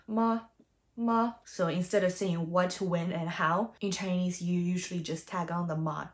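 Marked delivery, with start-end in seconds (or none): 0.0-1.4 "ma" short and unstressed; a brief, light "ma"; neutral tone. Shown as a demonstration. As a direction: keep "ma" short and sweet. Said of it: "short and sweet and quiet".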